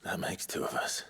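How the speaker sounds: tired whisper over a crib. Acted. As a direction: whisper so the child stays asleep. Tired whisper near sleeping child.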